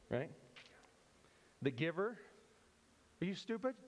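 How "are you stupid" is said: incredulous mock scolding; pretend offended. Bystander rebuking the giver for buying cake, mock offended. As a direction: play indignant, pitched up at first. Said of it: "pretend like we want to be offended".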